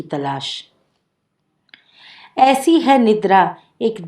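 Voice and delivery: measured, projected poem reading with pauses between lines; poem recitation. Acted. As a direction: recite verse line by line, voice lifted. (कविता पाठ)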